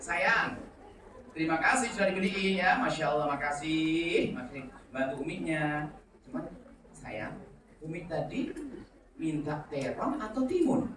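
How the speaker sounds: soft, slow, kind questioning; quiet tender mum checking an errand; gentle mother. Retold or imitated. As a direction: ask the child softly without blame. Gentle mother asks about cucumber.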